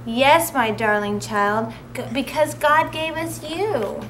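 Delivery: slow, tender mother voice. Acted. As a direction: say it lovingly and slowly. Mother bear reassuring.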